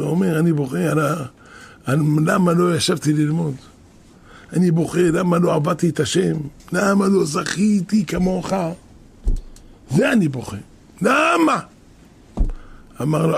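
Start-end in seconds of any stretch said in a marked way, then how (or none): 0.4-11.6 mock tearful lament. Older brother weeping to his brother over his lost chance, mock tearful lament. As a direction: lament it as if crying, drawing out words toward the end.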